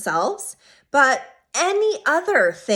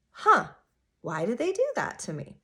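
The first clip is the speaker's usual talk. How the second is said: curious huh. Shown as a demonstration. Self-help speaker showing the right way to ask, curious and light. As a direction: ask it with open, neutral curiosity. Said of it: "More of, like, a".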